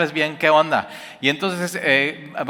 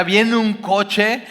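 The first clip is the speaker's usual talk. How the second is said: rising alarm; 7 semitones higher than usual. Retold or imitated. Building to the shout.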